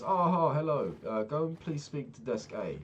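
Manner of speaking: high, loud, falsely cheerful clerk voice; imitating desk lady. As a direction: pitch it up and sing out the hello, then wave him off. Second desk lady brushes him off.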